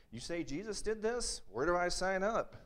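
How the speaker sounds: high, eager and bright-voiced; can't wait to join; eager excitement. Healed beggar eagerly asks Peter how to sign up, high and excited.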